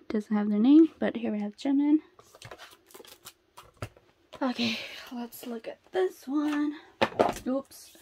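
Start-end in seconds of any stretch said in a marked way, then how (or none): 4.4-7.9 soft half-whisper; hushed anticipation. Real, not acted. Collector about to look at this one, hushed whisper. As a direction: whisper it, building suspense. Hushed before card reveal.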